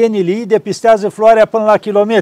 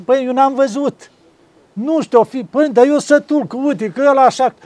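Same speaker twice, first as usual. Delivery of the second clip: much higher, lively protest; animated retort; 7 semitones higher than usual. Retold or imitated. Preotul reluând discuția cu oamenii, ridicat și aprins. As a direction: protest eagerly in the retold exchange. Retold argument with questioning people.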